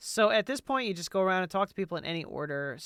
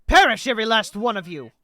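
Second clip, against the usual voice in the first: declamatory hostility, punched at key words; dramatic, building condemnation; menacing exterminator; 2 semitones higher, 7 dB louder than usual. Acted. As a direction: pronounce doom on the enemy. Voices hostile game figures.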